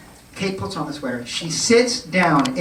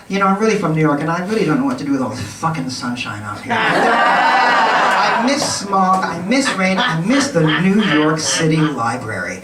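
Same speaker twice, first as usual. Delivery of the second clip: laughing through it; 4 dB louder than usual. Retold or imitated. Photographer retells Ethan's complaint about sunshine, laughing. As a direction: let the laughs break into the words.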